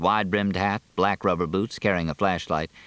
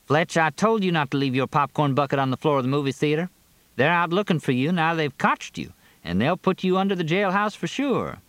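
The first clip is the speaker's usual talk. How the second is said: high-pitched Carrie, voice raised over the rain; speaking up loudly; 9 semitones higher than usual. A narrator's reading. Carrie to Fletch in the Jeep under pounding rain, speaking up. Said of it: "made them speak loudly".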